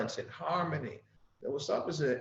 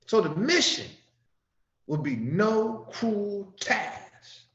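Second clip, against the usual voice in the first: fervent scripture reading. Acted. Preacher rereading the instruction to the congregation, fervent. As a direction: build it up as a sermon.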